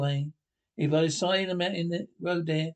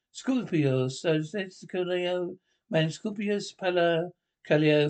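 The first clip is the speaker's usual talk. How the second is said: put-on gibberish Latin TV presenter accent; mock Mediterranean accent; slower than usual. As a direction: parody a southern European broadcast accent. Mock foreign television patter.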